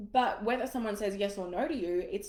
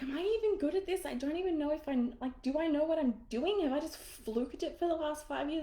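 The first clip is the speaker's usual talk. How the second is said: high, teary, doubting voice; reliving a tearful panic; mock tearful doubt to her husband; teary self-doubt; 6 semitones higher than usual. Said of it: "literally in tears".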